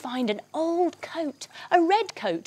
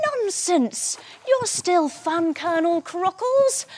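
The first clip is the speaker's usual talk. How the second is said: cheering up; 7 semitones higher, slower than usual. Acted. Cheering up the sad crocodile.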